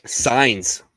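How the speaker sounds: unvoiced whispered title; whispered reveal. Real, not acted. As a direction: breathe the answer dramatically.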